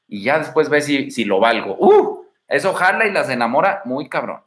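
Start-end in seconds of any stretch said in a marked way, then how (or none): 1.8-2.3 whoop. Real, not acted. Exclamation after tip.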